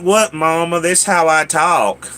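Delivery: protesting in a Mississippi twang; child's twangy protest. Retold or imitated. Child answering his mom back, Mississippi twang. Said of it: "stop talking like that".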